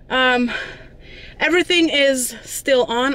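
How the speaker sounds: slightly breathless after walking; out of breath. Real, not acted. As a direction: talk while catching your breath. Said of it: "I'm a little bit out of breath".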